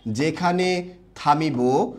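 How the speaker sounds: very slow, drawn-out words with gaps; slow dictation. Shown as a demonstration. Teacher dictating the rule for everyone to write, very slowly. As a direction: dictate at half speed, stretching each word.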